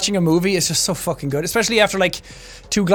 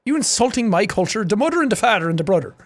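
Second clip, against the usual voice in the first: mock offence in broad Irish; Irish accent. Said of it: "Sounded Jamaican".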